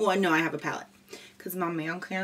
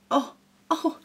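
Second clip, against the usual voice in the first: excited oh; 9 semitones higher, 6 dB louder than usual. Real, not acted. Suddenly remembers her news.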